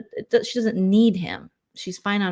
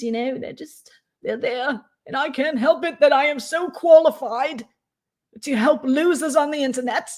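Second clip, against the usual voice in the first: lightly voiced pompous man, a bit higher; mock self-important guy; 4 semitones higher than usual. Lightly voiced pompous streamer bragging about his qualifications. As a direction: puff up like a self-appointed savior. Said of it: "He's like".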